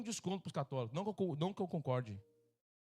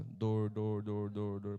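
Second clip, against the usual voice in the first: mock groaning; 8 semitones lower, much slower than usual. Groaning about pain.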